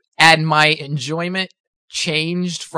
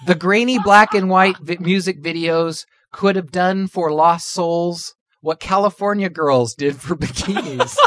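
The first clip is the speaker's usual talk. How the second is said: reading while holding in laughter; fighting back giggles; trying not to laugh; 2 semitones higher than usual. Real, not acted. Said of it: "Sorry, I'm losing it".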